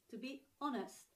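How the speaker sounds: "honest" starting on the vowel, no H; silent H. Shown as a demonstration. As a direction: demonstrate "honest" without any H. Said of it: "you don't pronounce the H here".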